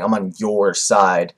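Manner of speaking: "your" stretched out slowly, low voice; stress on your. Retold or imitated. Vlogger repeating Kabuto's pledge, "your" drawn out. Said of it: "the your was emphasized".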